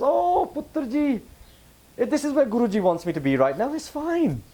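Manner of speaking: put-on high, slow, gentle old woman's voice; elderly Mataji. Mataji at peace with cancer, answering on the phone, high and slow. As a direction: voice her serene acceptance, slow and high.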